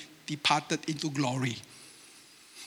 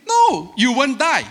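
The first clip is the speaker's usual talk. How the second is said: serpent voice; 6 semitones higher, 6 dB louder than usual. Retold or imitated. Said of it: "Technically, he say".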